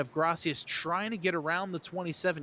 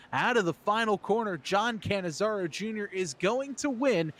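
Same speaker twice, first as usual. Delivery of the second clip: building play-by-play finish call; excited winning call; 4 semitones higher than usual. Real, not acted. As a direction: announce the winner with rising excitement. Calling the winner at the finish.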